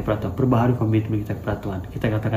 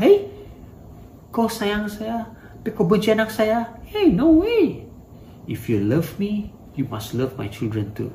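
angry parent; 8 semitones higher than usual. Acted. Parent answers someone who hates their children, angry. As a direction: protest like an offended parent, starting high. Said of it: "Pasti marah kan".

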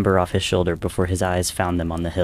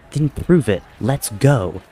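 higher and louder, daring him; defiant challenge; 5 semitones higher, 5 dB louder, slower than usual. A narrator's reading. Tommy daring Wilbur to prove it, loud and high. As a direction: throw the challenge back hard.

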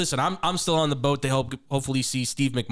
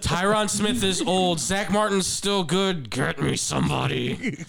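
put-on old man voice; 3 semitones higher, slower than usual. Aging Dak pleading with Jerry.

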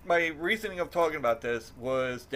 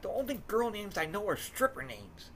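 playful complaint; 9 semitones higher, 3 dB quieter than usual. Retold or imitated. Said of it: "I'm like".

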